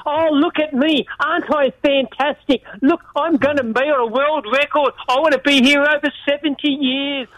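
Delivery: lightly mimicking a boastful broadcaster; mock self-admiration. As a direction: play up the show-off to needle him. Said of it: "you want the adulation".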